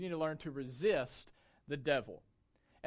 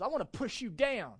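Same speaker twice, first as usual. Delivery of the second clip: put-on mad toddler; 5 semitones higher than usual. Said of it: "he's so mad".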